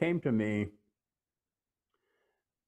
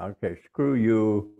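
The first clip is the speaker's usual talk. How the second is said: louder, slow defiant retort; mad at God; 5 dB louder, slower than usual. Retold or imitated. Man furious at God after the argument, louder and slow. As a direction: spit it back at God, louder and slower. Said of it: "I was mad at God".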